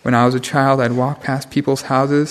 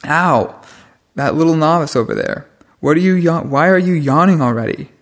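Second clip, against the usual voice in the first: scolding; 2 semitones higher, 4 dB louder than usual. Real, not acted. Scolds a yawning novice mid-talk.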